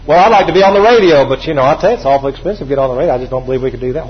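fearful excuse-maker. Retold or imitated. Mocking a fearful believer, sinking into defeat. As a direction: talk yourself out of it.

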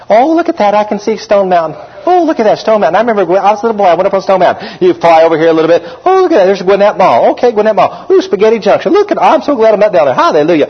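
mock delight of a student pilot on a pretty day; excited sightseer. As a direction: point out landmarks like a thrilled kid.

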